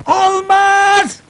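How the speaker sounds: high, drawn-out cry of no; exasperated refusal. Acted. Boss to bungling police chief, exasperated refusal. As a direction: exclaim it, completely fed up. Boss rejects officer's silly proposal.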